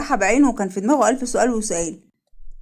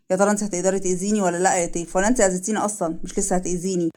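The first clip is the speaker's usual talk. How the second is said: slightly lowered, subdued man's voice; a hint of a grave male character; lightly voiced wounded man; 3 semitones lower than usual. Man asking whether she will hurt him, subdued and grave. Asad confides and questions Teif.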